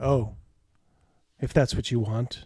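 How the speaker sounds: let-down, disappointed, giving-in tone. In character during a role-play, answering a partner who wants to part ways; disappointed. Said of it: "You can tell there's disappointment in her voice".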